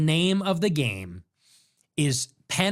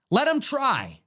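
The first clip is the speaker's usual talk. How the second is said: mocking; 7 semitones higher than usual. Mocking repeat of own line.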